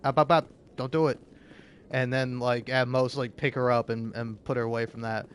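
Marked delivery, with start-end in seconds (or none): 0.0-1.2 raised voice. Retold or imitated. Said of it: "kinda raise my voice and be like".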